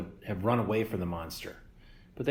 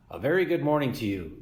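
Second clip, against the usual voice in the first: friendly booming robot; 4 semitones higher than usual. Acted. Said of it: "the robot's friendly voice boomed".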